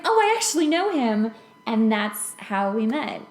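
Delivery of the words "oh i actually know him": friend's casual reply. Retold or imitated. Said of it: "my friend's like".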